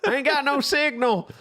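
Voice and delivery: high, loud, drawn-out hollering through laughter; mock panicked yell. Joking about falling from a cell tower, mock panicked yelling. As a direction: holler it like a hammed-up movie victim.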